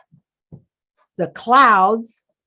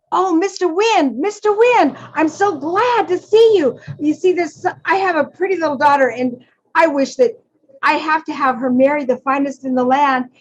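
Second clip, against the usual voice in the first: much higher-pitched, excited storybook mouse; Father Mouse, glad and eager; 6 semitones higher than usual. Acted. Father Mouse greets Mister Wind about his daughter, eager and high. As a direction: hail him in a high, gushing voice.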